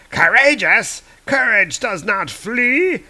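high, loud mocking retort; scornful villain. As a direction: sneer at the word courageous. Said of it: "And Pericus is like".

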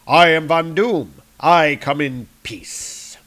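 haughty villain, lightly voiced; scornful tyrant hiding his threat; Doctor Doom. Doom answering the sentries, haughty. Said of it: "It said".

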